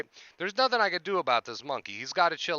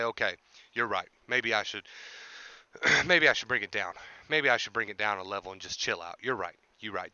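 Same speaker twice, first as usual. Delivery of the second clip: lower, mock-contrite concession; lightly voiced agreeable monkey; 5 semitones lower than usual. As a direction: play a monkey meekly backing down, voice dropped. Voicing an improbably agreeable monkey.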